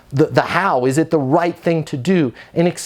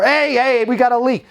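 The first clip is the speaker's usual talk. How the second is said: high-pitched complaining resident; mock yell, pitched up, cutting in; upset resident yelling; 8 semitones higher than usual. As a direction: imitate an irate resident, voice raised in pitch. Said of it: "current resident that's upset".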